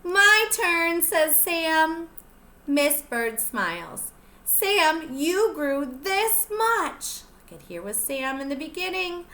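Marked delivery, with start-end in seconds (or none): 0.0-7.2 lively storybook reading; picture book read-aloud voice; reading to children. Acted. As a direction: read it out to the little ones, bright and clear. Teacher reads picture book aloud.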